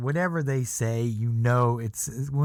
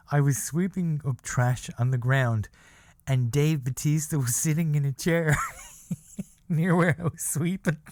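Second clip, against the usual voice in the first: laughing; 3 semitones higher than usual. Real, not acted. Laughing while quoting.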